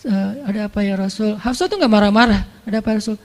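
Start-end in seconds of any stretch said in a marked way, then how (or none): 0.0-1.3 gentle soft voice. Acted. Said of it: "lembut banget". 2.7-3.2 gentle soft voice. Acted. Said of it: "lembut banget".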